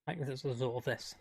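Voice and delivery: wobbly, warbling bad-connection imitation. Shown as a demonstration. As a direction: mimic a glitchy warbling mic. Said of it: "You sound like you're warbling".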